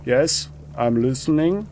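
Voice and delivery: composed, measured reply; calm and businesslike, lightly acted. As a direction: answer evenly, with a short pause after "Yes". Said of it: "says in a calm, measured tone".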